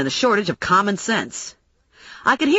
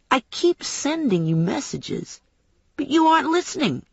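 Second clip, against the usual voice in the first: a touch of exasperated menace; mild menace; 7 semitones higher than usual. Acted. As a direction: draw out the warning, then pitch up. Knife-wielding man threatens narrator.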